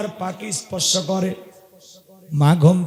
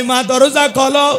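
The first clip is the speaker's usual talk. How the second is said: raised call of a son at his mother's door; 3 semitones higher, 4 dB louder than usual. Acted.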